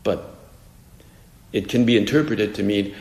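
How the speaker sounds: ordinary talk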